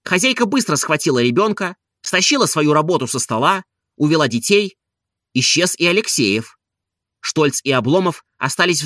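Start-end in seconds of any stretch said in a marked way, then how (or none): none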